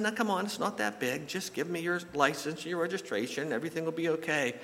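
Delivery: acted man soothing an upset driver; pocieszanie. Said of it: "she started crying".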